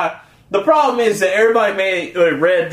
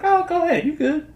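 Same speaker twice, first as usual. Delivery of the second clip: high, soft mom voice; imitated lenient mom; 11 semitones higher, 3 dB quieter than usual. Mom letting her son keep playing, high soft imitation. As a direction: lightly wave the kid on, high and soft.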